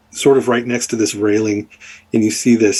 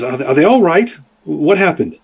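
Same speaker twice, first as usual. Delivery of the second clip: worried father; 5 semitones higher than usual. Acted. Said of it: "your father says".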